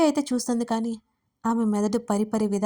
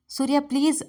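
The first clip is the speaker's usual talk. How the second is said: pleading, higher, a touch of tears; tearful plea; 5 semitones higher, 3 dB louder than usual. Acted. Dharani begs Suriya to let go, tearfully pleading. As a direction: beg him to stop, on the edge of crying. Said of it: "అంది కన్నీళ్లతో".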